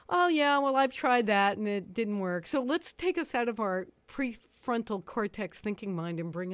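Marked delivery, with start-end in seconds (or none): 0.1-2.5 dismissive, doubtful complaint; skeptical scoff. Retold or imitated. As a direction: sound unconvinced. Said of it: "possibly going".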